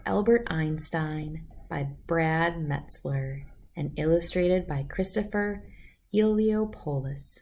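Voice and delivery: put-on calm, clear storybook reading for kids; reading a story aloud. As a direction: read it like bedtime story time. Reads picture book aloud.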